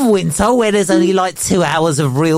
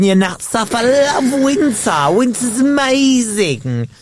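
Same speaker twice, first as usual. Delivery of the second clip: deadpan mock love for winter; a lightly played sarcastic winter fan; sarcastic winter praise. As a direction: gush about winter while meaning the opposite.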